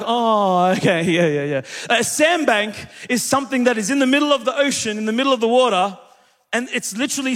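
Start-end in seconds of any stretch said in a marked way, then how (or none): 0.0-1.6 lightly mocked white listeners, pitch sliding lower; quick imitation of people pretending they get it; white people reacting. Preacher teasing white listeners about sandbanks, lightly mocked agreement. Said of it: "All the white people are like".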